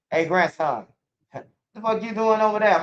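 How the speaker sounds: high, laughing mock grandma scolding; granny voice. Grandma scolding her grandson from across the room, high and laughing. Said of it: "my granny will be like".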